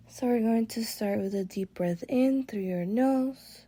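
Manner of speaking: calm guided meditation with long pauses; relaxing meditation voice. Real, not acted. Guide leading listeners through breathwork and body relaxation, relaxing. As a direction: ease them unhurriedly through each breath, letting phrases settle. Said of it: "My voice is gonna shift to a little more relaxing".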